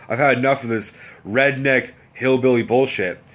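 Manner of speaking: acted exasperation at fuller volume; emphatically fed up. Cook done with the rednecks, emphatically fed up. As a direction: spell out the disgust word by word. Same fed-up thought, stronger second take.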